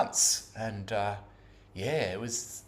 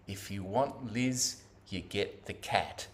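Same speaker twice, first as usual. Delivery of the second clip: inner thought voice; 2 semitones lower, 3 dB quieter, slower than usual. Retold or imitated. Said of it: "this thought dropped into my head".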